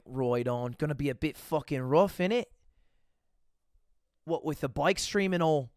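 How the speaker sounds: imitated Welsh accent; mock Welsh accent, offhand. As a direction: put on a casual Welsh mate's accent. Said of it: "Weird accent today, w-, Connor".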